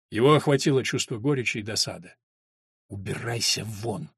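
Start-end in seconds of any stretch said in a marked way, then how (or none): 2.9-4.1 low, slow, hushed dismissal; quiet and drawn out, pitched low; whispered. A narrator's reading. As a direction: send him away under your breath. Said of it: "прошептал Том".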